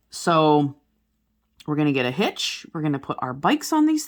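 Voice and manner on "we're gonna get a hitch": usual speaking voice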